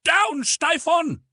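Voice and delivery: very high, loud, drawn-out war cry; mass battle yell. A narrator's reading. Everybody yelling after the cannon volley, long high shout. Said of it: "and everybody was yelling".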